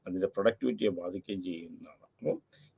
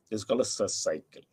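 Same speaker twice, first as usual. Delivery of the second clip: slow dictation; 3 dB quieter, much slower than usual. Acted. Teacher dictates key definition.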